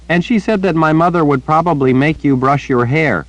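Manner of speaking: put-on high, earnest little girl chattering; bright-eyed child repeating gossip to the old wizard. A narrator's reading. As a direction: pitch it up like a young girl telling news. Child Rachel voiced.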